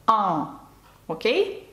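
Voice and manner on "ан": nasal French "ан"; nasal sound. Shown as a demonstration. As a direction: say "ан" as one open vowel through the nose. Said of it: "а звук «ан»".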